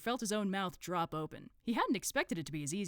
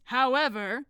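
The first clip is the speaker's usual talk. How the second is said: loud, higher, sharp interruption; 7 semitones higher, 12 dB louder, slower than usual. Acted. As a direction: cut across the chatter sharply. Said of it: "said the Supreme Grand Master sharply".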